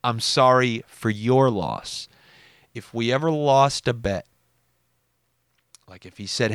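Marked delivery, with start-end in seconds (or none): 0.0-2.1 slow mock sympathy, weight on "your"; smug condolence. Retelling cousin's jab at funeral, smug. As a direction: draw out the condolence with smug emphasis. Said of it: "when we received that smug".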